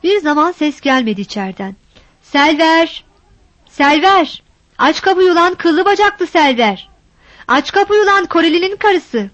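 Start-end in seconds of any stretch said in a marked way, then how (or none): 2.2-9.3 high, insistent calls with a rude edge; yelling at the door. Acted. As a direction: bang on the door with your voice, taunting her. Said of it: "Epeyce bağırdı".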